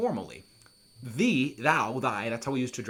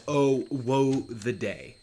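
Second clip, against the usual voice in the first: mournful cry; 3 dB louder, much slower than usual. Acted. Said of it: "Miranda cries".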